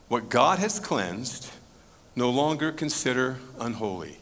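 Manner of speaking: slow, measured pronouncement, lightly voiced; solemn heavenly voice. Voice answering Peter a second time, slow and solemn. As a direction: space the words out as a decree. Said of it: "a voice came to him".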